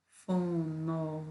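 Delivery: Fonológica broken into separate syllables, fo-no-ló-gi-ca; split into syllables. Shown as a demonstration. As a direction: count out each syllable of Fonológica. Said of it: "cinco sílabas".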